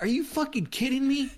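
very high-pitched mock disbelief; incredulous outburst. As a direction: imitate an exasperated comeback, voice leaping way up. Acting out comedian's incredulous reply.

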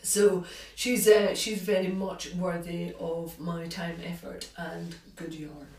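talking around a sip of tea; sipping hot tea. Real, not acted. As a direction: speak just before a slurp of tea. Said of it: "a quick slurp of tea".

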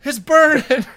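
loud, very high-pitched imitation of agony; high mock wail of burning pain; mock pained cry. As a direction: cry out as if stung, hammed-up. Imitates teammate crying out in burning pain.

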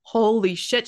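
breathy whisper of disbelief; whispered shock. Retold or imitated. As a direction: whisper it, stunned. Grandma's stunned reaction.

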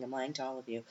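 playful quiet confession to viewers; mock confession. Real, not acted. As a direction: drop the voice like telling a secret.

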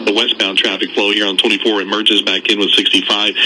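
steady, brisk-sounding traffic update; radio traffic report. Real, not acted. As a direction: deliver a live on-air traffic bulletin.

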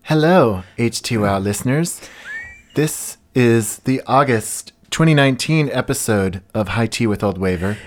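put-on generic podcast host. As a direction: introduce the show in a mock podcaster voice. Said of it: "Is this the podcast voice?".

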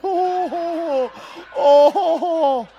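high mock laughter; hammed-up laugh. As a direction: overdo the laugh. Exaggerated laugh.

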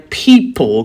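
"people" set apart as if in quotes; air-quoted emphasis. Real, not acted. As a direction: put knowing weight on "people". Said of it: "'cause I'm doing air quotes".

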